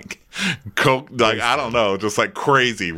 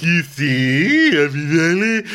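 higher, louder mock hostess call; announcing to all; 8 semitones higher, 5 dB louder than usual. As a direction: call out to the whole room. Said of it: "Dorinda's like".

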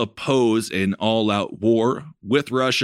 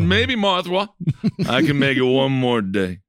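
reading a love letter; 2 semitones higher than usual. Retold or imitated. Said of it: "And I said".

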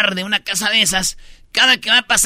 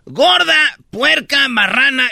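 retold insults; 4 semitones higher, slower than usual. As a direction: hurl the insults like the angry owner. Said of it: "le dijo a una mujer de seguridad". (insultos gritados con burla)

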